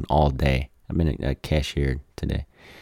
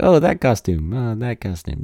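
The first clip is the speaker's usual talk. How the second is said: mock gushing quote; 6 semitones higher than usual. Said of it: "it's like".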